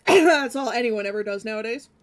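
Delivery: coughing through a mouthful; choking on food. Real, not acted. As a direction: speak while choking on a bite. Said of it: "Choking on mushrooms".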